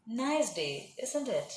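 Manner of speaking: "isn't it" with falling pitch, as a statement; falling intonation. Shown as a demonstration. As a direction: let "isn't it" drop, not really asking. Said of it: "If it is falling intonation".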